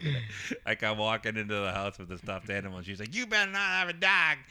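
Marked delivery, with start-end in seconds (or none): 3.1-4.4 high, sharp mock warning; hammed-up mom laying down the law; stern mom warning. Mom on the phone forbidding a new dog, high and sharp.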